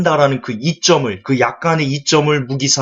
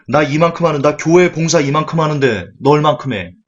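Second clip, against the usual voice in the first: smug churchgoer; 4 semitones higher, 3 dB louder than usual. Acted. Mocking arrogant churchgoer.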